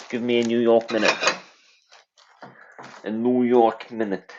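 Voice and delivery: put-on a light, rusty New York accent on "Give me a New York minute". Chat waits while he tests a slightly rusty New York accent. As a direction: streamer teasing chat, trying his New York accent. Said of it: "done my New York accent".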